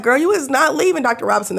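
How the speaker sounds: lightly voiced firm doctor; imitating the firm doctor. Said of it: "she was like".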